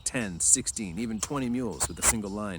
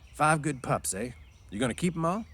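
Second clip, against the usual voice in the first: Carlson; 7 semitones higher, 3 dB louder than usual. Acted. Carlson talks.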